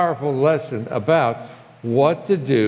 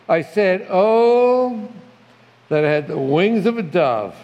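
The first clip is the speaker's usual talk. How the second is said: longing cry; 2 semitones higher than usual. Shown as a demonstration. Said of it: "read it with the emotion".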